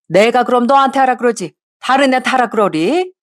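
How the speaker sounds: a hint of a sharp mother-in-law brushing off her son.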